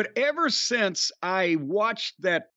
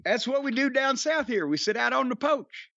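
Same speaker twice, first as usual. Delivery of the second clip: higher, lightly hammed Southern accent; 5 semitones higher than usual. Host explaining southern habits to co-host, Southern accent. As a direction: play up the down-home Southern sound. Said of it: "what this accent is you're doing".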